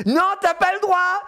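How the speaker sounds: put-on high, drawn-out child protest; slow, high-pitched mock tantrum; little girl losing it. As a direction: mimic a kid blowing a fuse. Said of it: "elle pète un plomb et tout".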